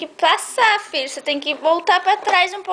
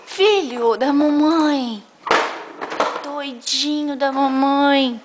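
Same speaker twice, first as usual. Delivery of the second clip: tender cooing; slower than usual. Real, not acted. Mother cooing pet names to her son, slow and tender. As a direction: draw out the pet names lovingly.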